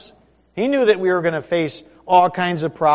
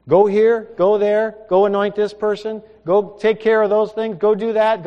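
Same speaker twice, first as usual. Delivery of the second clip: higher, louder string of commands; commanding orders; 6 semitones higher, 7 dB louder than usual. Acted. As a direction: send him off with firm orders. God gives Elijah orders.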